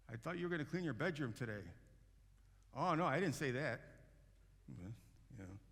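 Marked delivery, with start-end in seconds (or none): 0.1-1.6 parent nagging. Retold or imitated. Parent confronting child. 2.7-3.8 put-on high, loud indignant kid; kid's loud denial. Kid denying to parent.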